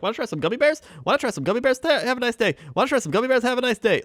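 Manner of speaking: put-on gummy bear girl. Imitating the candy store girl offering gummy bears, high chirp. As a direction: chirp it like a rehearsed vendor. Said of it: "her script thing down so well".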